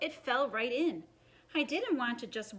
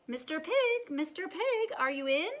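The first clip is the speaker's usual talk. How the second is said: higher sing-song call; calling at the door; 3 semitones higher than usual. Retold or imitated. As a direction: call the pig out sweetly. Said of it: "I called".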